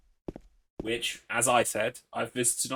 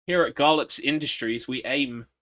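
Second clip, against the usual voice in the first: corporate spokesman; 3 semitones higher, 8 dB louder than usual. Pretend. Spoofing a company slogan.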